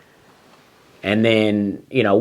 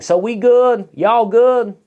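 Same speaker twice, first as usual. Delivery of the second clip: mock server; 10 semitones higher, slower than usual. The server girl checking on the table, high and offhand. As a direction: toss it off like a blunt waitress.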